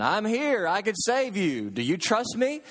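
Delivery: lightly acted voice calling down from above; voice from heaven. Voice from heaven offers rescue to dangling man, calling out. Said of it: "a voice cries out from heaven".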